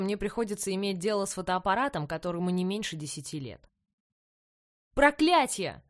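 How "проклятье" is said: furious roar of a coach. A narrator's reading. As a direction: bellow the curse out loud. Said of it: "взревел".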